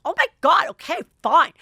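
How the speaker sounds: high, loud, breezy brush-off; dismissive. Retold or imitated. Ramona shrugging off Leah's insult, high dismissive brush-off. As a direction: wave it away like it doesn't matter. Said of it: "she doesn't even really seem to care".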